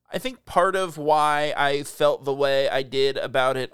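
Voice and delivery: slow, drawn-out delivery; slow deliberate talk. Real, not acted. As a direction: stretch each word out slowly. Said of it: "Are you talking weird?".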